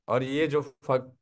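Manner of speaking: फक said slowly and clearly, as a teacher sounding it out; slow pronunciation demo. Shown as a demonstration. Teacher sounding out a syllable for students, slow and clear. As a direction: draw out फक for the students. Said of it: "ये इसका उच्चारण और इसका उच्चारण दोनों का same है".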